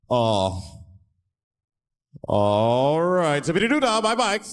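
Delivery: lawyer voice rising, bewildered; confused lawyer. Retold or imitated. Lawyer answering fake slang, bewildered and rising. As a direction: stumble into a goofy reply. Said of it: "It'd be".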